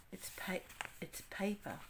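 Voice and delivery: soft, surprised whisper; awed unvoiced whisper. Real, not acted. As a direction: hush it in amazement. Marvelling at envelope.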